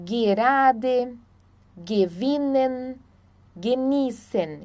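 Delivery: "gerade", "gewinnen", "genießen" with hard G as in "gui". Shown as a demonstration. Teacher explaining German G, hard G in "gerade", "gewinnen", "genießen". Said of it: "nunca vai ser G".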